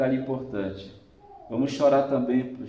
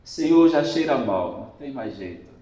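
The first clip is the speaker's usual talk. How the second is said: despairing objection; 7 dB louder than usual. Acted. Martha objecting at Lazarus' tomb.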